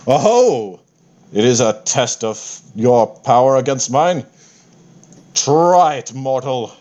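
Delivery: grand, slow, self-satisfied deity; lightly voiced pompous war god; boastful god voice. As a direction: announce yourself as an unbeatable god. Fitander taunts the attacker.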